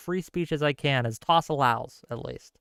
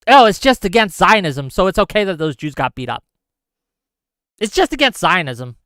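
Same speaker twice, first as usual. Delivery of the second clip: sarcastic mock; 4 dB louder than usual. Mocking the other side's view.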